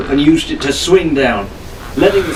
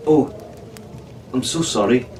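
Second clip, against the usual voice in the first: sincere; 5 dB quieter than usual. Acted. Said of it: "Arabella said sincerely".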